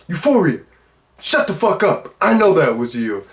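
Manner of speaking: high-pitched imitation of an angry retort; mock angry outburst. Man snaps at girl who finished his sentence, mock anger. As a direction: act out a cut-off man's irritated snap. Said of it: "so angrily says, he's like".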